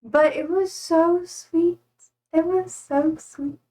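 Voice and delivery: high, slow, choked-up gushing; holding back tears. Real, not acted. Streamer touched by a gift, real fight against tears. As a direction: draw it out high, trying not to cry. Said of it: "I'm trying to not cry".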